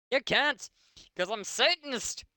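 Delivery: mock scream. A narrator's reading. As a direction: squeal it like a hammed-up goth. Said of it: "she screamed".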